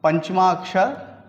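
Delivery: पंचमा अक्षर drawn out slowly, each syllable held; teacher slowing पंचमा अक्षर down for the class; slowly spelled out. Shown as a demonstration. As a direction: stretch out पंचमा अक्षर so the pupils can copy it. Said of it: "इसको बोलते हैं".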